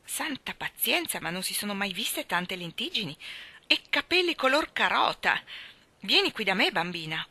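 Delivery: a hammed-up gossip's outrage; scandalised exclamation.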